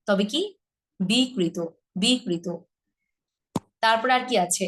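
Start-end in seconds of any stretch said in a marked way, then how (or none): 1.0-2.5 বিকৃত as "bi-krito"; single k after open bi in বিকৃত; একক ক. Shown as a demonstration. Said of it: "রিকারের বেলায় হবে না". ("বিকৃত" বলো বি-কৃত)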